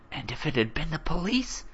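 mildly demanding, pitch lifted; demanding whisper. A narrator's reading. Mother challenges her son for getting up, demanding in an understated stage whisper. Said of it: "his mother demanded, still whispering".

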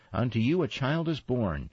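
high ringing call to the shepherds; yelled at the shepherds. A narrator's reading. Gladys the angel yelling her line at the shepherds. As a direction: announce it like an angel shouting down. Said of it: "she yelled at the shepherds".

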